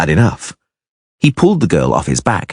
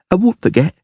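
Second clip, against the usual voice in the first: put-on sniffly child; 13 semitones higher than usual. A narrator's reading. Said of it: "she sniffed".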